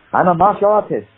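hammed-up audition line in a Chinese accent. Actor selling himself at an audition, performed Chinese accent. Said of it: "with a Chinese".

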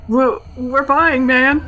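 high, slow squeak; squeaky Shaggy. A narrator's reading. Shaggy squeaks to the elder god, high and slow. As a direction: squeak it out nervously. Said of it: "Shaggy squeaked".

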